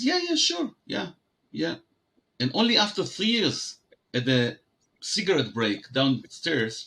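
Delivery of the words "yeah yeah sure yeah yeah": imitating a quick, high-pitched yes; noncommittal agreement. Japanese partners putting off a press release, noncommittal agreement. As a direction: agree in a much higher voice, imitating polite partners.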